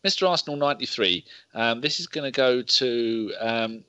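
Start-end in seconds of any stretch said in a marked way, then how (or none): 0.0-1.2 hiccups. Real, not acted. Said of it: "I don't know why I keep hiccuping".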